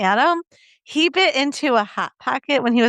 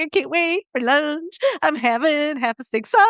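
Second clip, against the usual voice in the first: giddy excitement; 4 semitones higher than usual. Retold or imitated. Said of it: "I was like".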